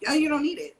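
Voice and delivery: put-on high, loud childish echo of mom; a hint of a sassy little girl; daughter mimicking. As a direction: throw the line back at her cheekily. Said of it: "her response to me was".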